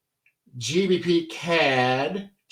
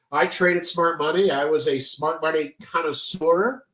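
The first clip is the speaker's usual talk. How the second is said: stuffy nose. Real, not acted. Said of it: "I'm really stuffy today".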